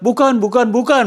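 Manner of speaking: preacher's mock emphatic denial; voicing Jesus. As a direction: deny it firmly as Jesus. Jesus answers, voiced.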